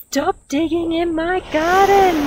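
high, loud screechy scolding; storybook scream. A narrator's reading. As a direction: scream it as an outraged owner, hammed-up. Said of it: "Missus Cripps screamed".

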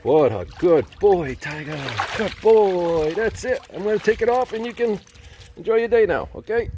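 very high, gushing pet talk; high praise voice. Real, not acted. Praising the dog after swimming.

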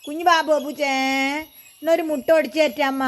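high coaxing voice to the dog; pet talk. Real, not acted. Mother coaxing her pet dog. (അരുമയോടുള്ള കൊഞ്ചൽ)

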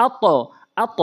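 আত bounced upward into a rounded o; upward bounce. Shown as a demonstration. Teacher repeating the correct echo, upward bounce. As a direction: push the end of আত up, heavy and rounded. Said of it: "উপরের দিকে".

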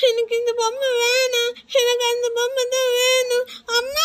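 put-on teary, whiny protest from a little girl; crying child. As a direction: sob it out like a small child denied a toy. Child crying for brother's doll. (அழுகையுடன் அடம் பிடிக்கும் குழந்தை)

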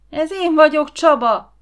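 high, loud squealing protest; shrieking child. A narrator's reading. Caught child crying out who he is, shrieking. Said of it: "sivalkodott a gyerek".

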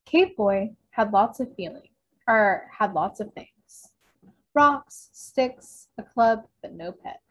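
animated picture-book narration with punchy key words; read-aloud to children. A narrator's reading. Librarian reads a caveman picture book to children, animated storytelling. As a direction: read the story out, acting each line.

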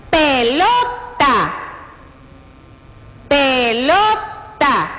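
Pelota said slowly, syllable by syllable; slow sounding-out. Shown as a demonstration. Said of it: "Sí tiene el sonido de la letra T".

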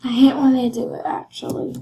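fast annoyed whisper. Real, not acted. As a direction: hiss it quickly under your breath. Grumbling aside at the game.

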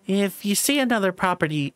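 half-hearted Scottish attempt; bad Scottish accent. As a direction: try a faked Scottish lilt, not quite landing it. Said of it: "My Scottish accent is so bad".

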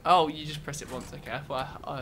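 ordinary delivery

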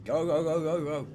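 loud, high rapid-fire urging; urgent shouting. Real, not acted. Player urging his character on, urgent shouting. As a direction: shout them onward without a break.

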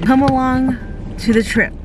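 ordinary delivery

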